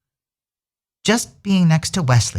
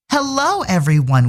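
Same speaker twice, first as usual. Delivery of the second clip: cheerful greeting; 7 semitones higher than usual. A narrator's reading. Bunnies greet garden brightly.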